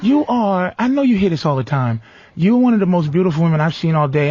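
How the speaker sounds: lightly voiced sweet-talking guy; smooth flatterer. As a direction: lay on the charm like a smooth talker. Mock smooth pickup man flattering.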